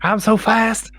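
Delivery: mock Ali accent. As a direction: brag it like Ali, lightly hammed. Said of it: "I don't know why you're doing the voice".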